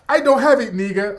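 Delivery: a brother insisting he has nothing; mock refusal. West African brother pleading broke to the comedian, lightly voiced.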